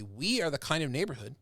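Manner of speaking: rally a crowd against injustice; passionate indignation. Shown as a demonstration. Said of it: "a good orator could make that happen and say".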